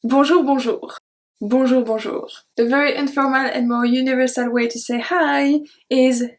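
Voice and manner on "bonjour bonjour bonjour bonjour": cheeky, cheery sing-song bonjour; happy dad greeting. Shown as a demonstration. Teacher demos the cheeky dad bonjour, cheery. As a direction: bounce it like a jolly dad saying hello. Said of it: "very cheeky, very happy way to say hello".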